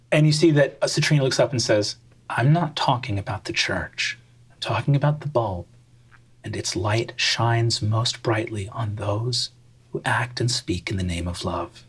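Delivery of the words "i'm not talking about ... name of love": devout sister. Acted. Devout Citrina speaks.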